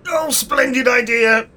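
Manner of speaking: slow, high, booming enthusiasm; theatrical delight. Acted. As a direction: gush grandly like a hammy thespian. Hammy would-be actor takes the offer.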